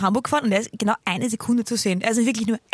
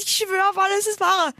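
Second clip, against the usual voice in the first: insistent high; 10 semitones higher than usual. Retold or imitated. Insisting to Sabrina.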